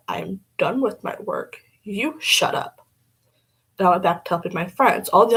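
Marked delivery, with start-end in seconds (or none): 0.1-2.9 slow retort. Retold or imitated. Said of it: "I looked at her and said".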